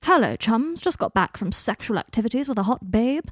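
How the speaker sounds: lightly mocking someone's stilted formal talk; mocking imitation. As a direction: mildly parody the stiff way he talks. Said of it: "Do you speak like that".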